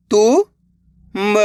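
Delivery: each syllable sounded separately, pauses between; letter by letter. Shown as a demonstration. Teacher sounds out a word for beginners, letter by letter. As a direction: break the word into its letters, slowly. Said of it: "एक ही अक्षर का उच्चारण".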